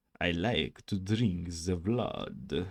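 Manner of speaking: very slow, drawling, stereotypical classic vampire voice. Showing off doing voices, a line in a stereotypical vampire voice. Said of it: "like a stereotypical vampire voice".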